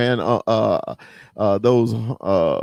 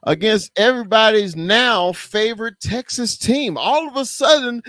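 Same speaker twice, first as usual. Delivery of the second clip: heated rant; 5 semitones higher than usual. Real, not acted. Host ranting against Texans hype, heated and climbing. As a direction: get worked up about the Texans hype. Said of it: "I got a little emotional about that".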